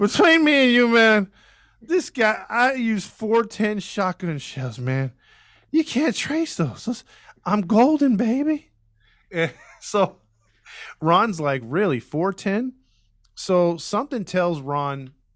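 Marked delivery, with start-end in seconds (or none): 0.0-9.5 put-on drunk man voice, much higher. Retelling what a drunk man said between them: imitating a drunk man. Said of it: "because he's all drunk".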